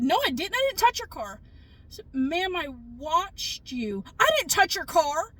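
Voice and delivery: a hint of a huffy old lady insisting; mock denial. Retold quarrel with the old lady.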